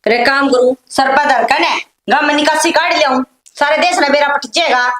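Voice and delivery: loud, aggrieved outburst; angry complaint. Acted. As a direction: complain at full voice in a household fight. Acted quarrel, loud complaint. (गुस्से में ज़ोर से शिकायत)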